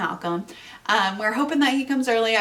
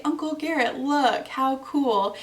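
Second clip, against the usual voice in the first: put-on a light, higher little-girl voice; hint of a small child showing off a gift; toddler voice; 4 semitones higher than usual. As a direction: lightly play the excited toddler. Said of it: "to Garrett and say".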